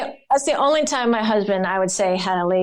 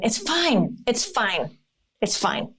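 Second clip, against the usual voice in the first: soothing, fading to whisper; 4 dB quieter, much slower than usual. Retold or imitated. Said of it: "I always tell my husband".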